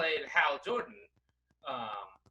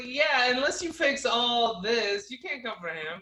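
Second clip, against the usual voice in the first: defiant; 7 semitones higher, 5 dB louder than usual. Pretend. Acted retort to critics.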